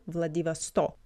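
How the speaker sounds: Vladivostok stressed on its last syllable, "stok". Shown as a demonstration. Language teacher repeats the city's name, stress on last O. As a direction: put the weight on the final O of Vladivostok. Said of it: "the last O".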